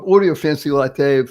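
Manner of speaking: ordinary talk, nothing marked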